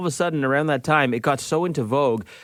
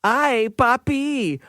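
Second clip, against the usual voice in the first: slow demo read. Shown as a demonstration. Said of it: "the sentence we are tasked with saying".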